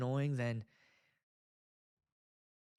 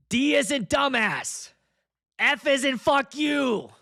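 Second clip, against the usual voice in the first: angry spelling; 9 semitones higher, 7 dB louder, slower than usual. Pretend. Spelling out to phone system.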